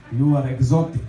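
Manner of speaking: lightly put-on Polish accent; a hint of imitated Polish accent. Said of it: "in this Polish accent".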